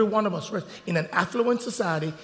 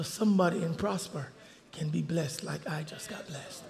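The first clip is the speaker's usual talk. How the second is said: tender quoting; 2 semitones lower, 8 dB quieter, slower than usual. Retold or imitated. Reading her tender words quietly.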